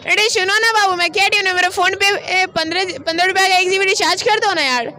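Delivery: put-on coaxing girlfriend voice; man doing a woman's voice. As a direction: sweet-talk like a girlfriend asking for recharge. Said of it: "लड़की की voice निकालते हैं". (लड़की की आवाज़ में मीठी गुज़ारिश)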